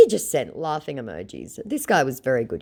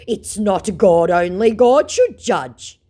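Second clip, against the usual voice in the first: mock scammer voice; 6 semitones higher, 7 dB louder, slower than usual. Voicing scammer.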